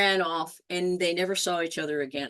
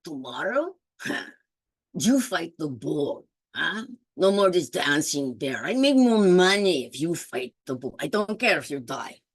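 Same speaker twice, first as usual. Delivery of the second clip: scolding master; 3 semitones lower, 3 dB louder than usual. Acted. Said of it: "its master was scolding it".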